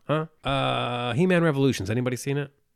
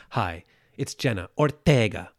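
mock Jenna Ortega intro; 3 semitones lower than usual. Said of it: "too much?".

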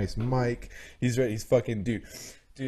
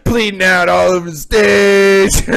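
loud, slow, laughing hype shout; excited shout; 8 semitones higher, 19 dB louder, slower than usual. Real, not acted. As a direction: yell it out like a hype man mid-show. Hyped retelling of rap show.

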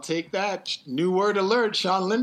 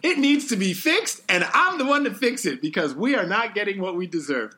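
hammed-up indignant candidate quote; lively mock outrage, pitch lifting in places; mock politician backpedaling; 3 semitones higher than usual. Pundit acting out Hillary's NAFTA reversal, mock indignant. Mocking Hillary's flip-flop in her voice.

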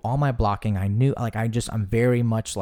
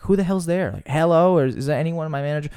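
high, alarmed calls into the empty aisle; nervous calling out; 6 semitones higher, 4 dB louder than usual. Retold or imitated. Night worker calling into empty aisles, high and spooked. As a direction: call out to whoever's there, spooked. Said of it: "investigating and being like".

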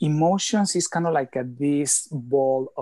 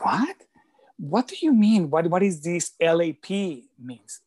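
higher and louder, baffled questions; puzzled surprise; 3 semitones higher, 4 dB louder than usual. Retold or imitated. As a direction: react as if the text makes no sense. Retold puzzled reply to text.

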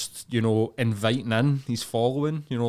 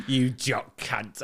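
slow mock English accent; much slower than usual. Mocking the English fans' insult, exaggerated English accent. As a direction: drag it out in a hammed-up English accent. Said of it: "I despise the English accent".

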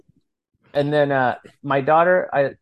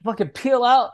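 imitating son; 10 semitones higher, 3 dB louder than usual. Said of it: "He's like".

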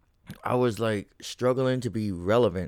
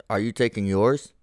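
retort. Retold or imitated. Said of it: "Before I'm gonna retort with".

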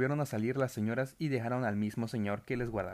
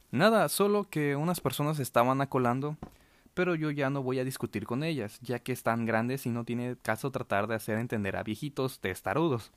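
loud on purpose. Retold or imitated. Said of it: "lo dije con voz alta".

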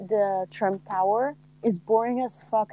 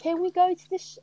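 higher, British-sounding Southern Belle attempt; botched Southern Belle accent; 6 semitones higher, faster than usual. Daughter asking Dad, Southern accent gone British. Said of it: "That is British".

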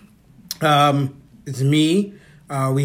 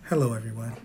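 put-on soft, lower babyish voice; baby face voice; 4 semitones lower, 7 dB quieter, faster than usual. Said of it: "This is my baby face voice".

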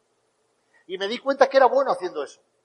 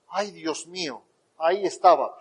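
awed realization; 4 semitones lower, slower than usual. Retold or imitated. Driver suddenly gets it, hushed amazement.

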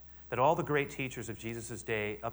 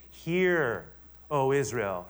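emphatic call; 5 dB louder, much slower than usual. Shown as a demonstration. Pastor proclaims the Shema to the congregation, loud and urgent. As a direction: call out "Hear" like a summons. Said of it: "check this out. It's".

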